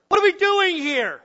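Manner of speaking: loud, high, panicked shouting at each other; frantic shouted blame; frightened angry yelling. Acted. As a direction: yell in desperation over the storm. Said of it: "As they yell to each other".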